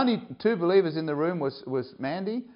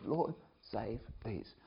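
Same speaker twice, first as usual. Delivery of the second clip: much softer, slow plea; soft pleading prayer; 3 semitones lower, 14 dB quieter, slower than usual. Retold or imitated. Mandy praying for her friends, soft and slow. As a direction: pray it gently, pleading.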